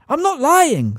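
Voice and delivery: high, loud denial; boy protesting to the court. A narrator's reading. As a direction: shout it over the muttering. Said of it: "said Harry loudly".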